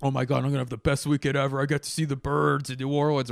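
fast, high giddy rush of joy; excited. Retold or imitated. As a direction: gush like a kid before a trip. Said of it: "So I went from being like".

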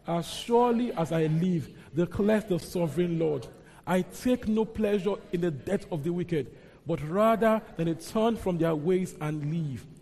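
slow, solemn reading of the prophet's words; measured pulpit reading; scripture reading. Acted. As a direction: declare it like the Lord speaking.

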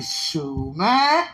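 playful voice leaping high on the ends; hammed-up excited heart; talking heart. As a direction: jump up high and eager, with laughter. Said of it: "My heart like".

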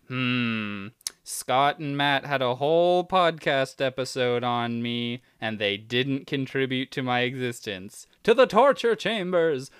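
lightly voiced scheming villain AI; gloating evil machine, rising to a shout; mad scientist. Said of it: "it will think".

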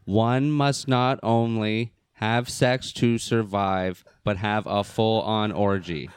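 very slow stiff robotic reading. Shown as a demonstration. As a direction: drag each word out like a machine. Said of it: "like someone's talking".

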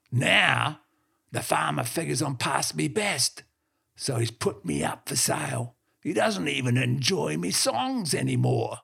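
lightly gruff dog telling tales; a hint of an old yarn-spinning heeler; old blue heeler boasting to the businessman, mildly gruff; gruff talking dog. The dog's long story voice.

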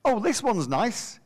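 lightly voiced old lady being tactful; grandmother's tact. Grandmother looks at another baby, slow mock praise.

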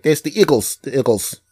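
imitating a South Philly accent. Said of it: "that's just the South Philadelphia accent".

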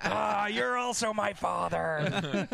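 mock grief. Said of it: "if I found my father murdered".

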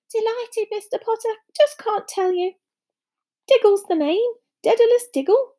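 high-pitched, delighted little greeting; excited admirer. A narrator's reading. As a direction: introduce yourself in a thrilled flutter. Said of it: "fell off in his excitement".

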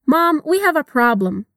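slow, clear repetition lines; slow model reading. Shown as a demonstration. Teacher modeling the dialogue slowly for learners. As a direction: give the lines slowly to repeat.

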